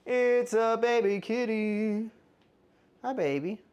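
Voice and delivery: slow high cooing voice. Real, not acted. Cooing at the kitten.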